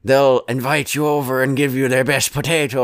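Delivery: a light hint of an Irish lilt; lightly voiced Irish charm, not fully committed; mild mock Irish accent. Tramp quoted with a faint Irish accent. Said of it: "that's not his normal accent".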